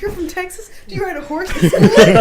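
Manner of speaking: mock British. Brits asking about Texas.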